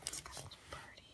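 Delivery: barely audible, awed whisper; tiny breath of amazement; delighted whisper. Real, not acted. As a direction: whisper it in hushed wonder. Hushed delight at a detail.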